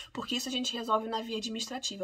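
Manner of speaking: hushed aside, breathy and unvoiced; whisper. Telling the policeman she'll settle it administratively, whispered. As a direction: say it under your breath. Calmly answering the police officer.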